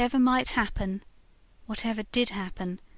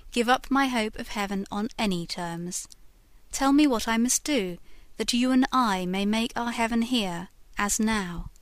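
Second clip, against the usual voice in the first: passionate plea; 4 dB louder than usual. Acted. Narrator passionately refuses.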